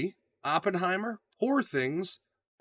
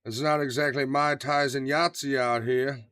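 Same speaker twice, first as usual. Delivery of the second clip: slow Southern drawl, movie-quote style; Nicolas Cage; slower than usual. Acted. Quoting a baffling Con Air line, slow Southern accent. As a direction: draw it out in a mock Southern accent. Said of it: "that other line he has where he's like".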